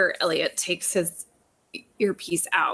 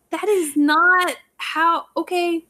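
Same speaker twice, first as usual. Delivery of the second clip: baffled reaction; 10 semitones higher, 4 dB louder than usual. Retold or imitated. A listener baffled by Hardison's saying, mock confused. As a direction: stop short, then give up with "okay, sure".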